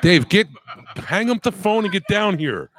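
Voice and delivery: calling out. Real, not acted. Calling friend off the phone.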